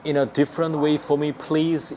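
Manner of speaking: very slow, every word spaced; teacher modelling slowly; slow demo. Shown as a demonstration. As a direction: spell it out for learners. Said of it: "이런 말 붙이면 돼요".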